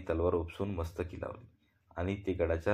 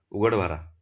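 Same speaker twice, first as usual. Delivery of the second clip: loud order; 7 dB louder than usual. Acted. Guard orders the load opened.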